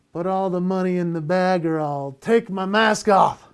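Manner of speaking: mock robber. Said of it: "and I go".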